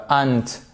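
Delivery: "aunt" with an open back vowel, "ahnt"; another wrong aunt. Shown as a demonstration. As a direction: say "aunt" as "ahnt", a faulty example.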